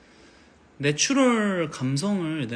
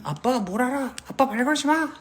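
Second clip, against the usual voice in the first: shrill sulky daughter; 10 semitones higher than usual. Pretend. Daughter shutting out her father, high sulky girl voice. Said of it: "딸들은".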